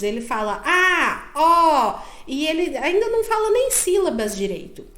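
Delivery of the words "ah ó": loud, drawn-out open vowel babble; child's random vowel sounds. Retold or imitated. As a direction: imitate a small child trying out sounds. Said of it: "seu filho fala sons aleatórios".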